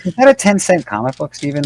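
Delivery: teasing. Real, not acted. Teasing question.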